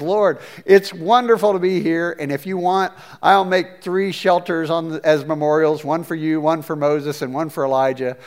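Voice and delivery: lightly voiced eager disciple; eager Peter. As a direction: blurt it out like an overexcited friend.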